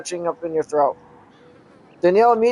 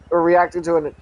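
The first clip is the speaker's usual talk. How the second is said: talking through hiccups; hiccuping between words. Real, not acted. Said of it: "I got a mild case of the hiccups".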